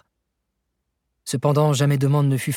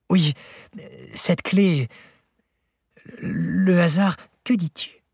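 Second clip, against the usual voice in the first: indescribable emotion; 4 semitones higher, slower than usual. A narrator's reading. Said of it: "s'écria-t-il avec une indescriptible émotion".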